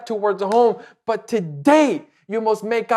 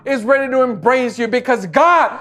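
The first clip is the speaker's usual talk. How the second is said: closing prayer. Acted. Pastor praying over his listeners in a rising, then hushed prayer. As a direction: pray it with rising conviction, then ease into a hush.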